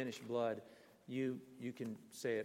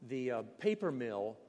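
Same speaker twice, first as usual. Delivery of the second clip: mocking Finn; 5 dB louder than usual. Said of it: "They would say".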